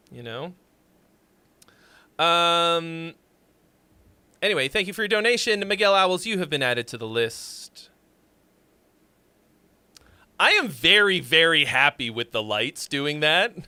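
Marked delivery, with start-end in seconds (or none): 6.2-7.9 ominous whisper. Pretend. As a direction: whisper it like a secret threat. Ominous joke to a donor.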